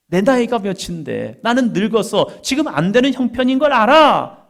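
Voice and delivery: loud, high-pitched acted protest. Preacher voicing old Sarah doubting God's promise, protesting. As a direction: preach it as an incredulous outburst.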